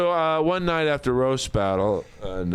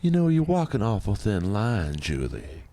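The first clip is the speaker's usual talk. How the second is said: acted movie scene; 4 semitones lower than usual. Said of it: "I can recite that scene".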